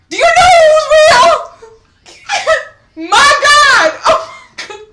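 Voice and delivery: very high, full-voice shriek; overjoyed screaming. Real, not acted. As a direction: scream it slowly, overwhelmed with joy. Overwhelmed by the seat upgrade.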